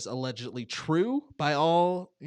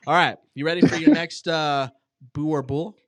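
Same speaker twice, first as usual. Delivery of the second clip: excited host; 2 semitones higher, 10 dB louder than usual. Acted. Excited host calling next round.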